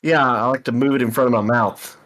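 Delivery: echoing, talking through a bucket; muffled, mic in the mouth. Real, not acted. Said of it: "you sound like you're talking through a bucket".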